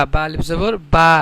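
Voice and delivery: final বা with a long held vowel; one-alif stretch. Shown as a demonstration. Teacher showing the alif rule, final বা held long. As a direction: draw out the last বা for one extra beat. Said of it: "এখানে এক আলিফ টান হবে".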